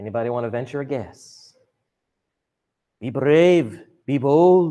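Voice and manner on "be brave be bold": very slow, drawn-out, put-on Scottish accent. Asking the group for a guess, the speaker slips into a Scottish accent. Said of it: "I don't know why I'm turning this into a Scottish accent".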